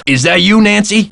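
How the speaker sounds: high, rising startled question; surprised calling out. Acted. Caretaker spots Nancy out in the cold, surprised call. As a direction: call out in surprise, pitch climbing right up.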